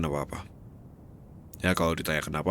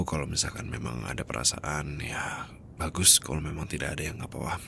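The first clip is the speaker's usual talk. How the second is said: fading to a whisper; 2 semitones lower, 7 dB quieter than usual. Acted. Confession fading to near whisper.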